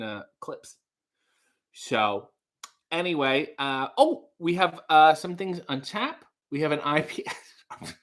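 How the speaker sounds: lightly acted waiter humouring the table; polite small talk with awkward little laughs. Waiter chatting with rowdy wrestling guests, lightly acted politeness. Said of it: "That was my impression of the waiter".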